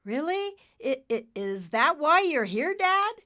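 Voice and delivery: very high, stammering and nervous. Acted. Nimbus asks his father why he came, nervous stammer. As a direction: stutter out the worried question. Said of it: "Nimbus was suddenly nervous".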